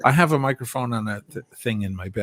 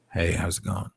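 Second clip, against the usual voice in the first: lightly lowered host voice; 4 dB louder than usual. Shown as a demonstration. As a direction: welcome the Friday drinkers. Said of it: "it starts like this".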